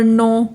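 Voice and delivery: नो with a long, held o; long vowel. Shown as a demonstration. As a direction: stretch the vowel in नो. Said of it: "बहुत उसका duration लंबा देते हैं".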